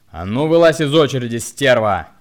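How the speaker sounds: menacing command. A narrator's reading. Hunchbacked man loudly orders her out of the queue. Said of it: "грозно скомандовал".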